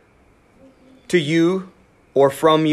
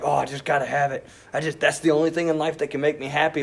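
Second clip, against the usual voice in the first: quick, softer voice of craving; hushed longing; 6 dB quieter, faster than usual. Retold or imitated. Preacher voicing a covetous heart, hushed craving. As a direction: mutter the wanting under your breath.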